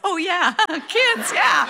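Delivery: high-pitched comic mock yell; hammed-up shout without much volume; retold dad's yell. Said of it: "And my dad yells".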